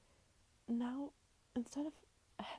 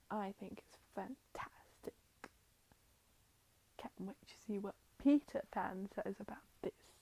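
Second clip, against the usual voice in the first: playing a boy with a put-on British accent; slow, drawn-out British accent at first. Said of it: "Why do you have a British accent?".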